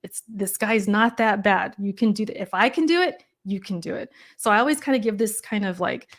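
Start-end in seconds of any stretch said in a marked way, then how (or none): 0.0-4.1 calm affirmation. Shown as a demonstration. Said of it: "a affirmation".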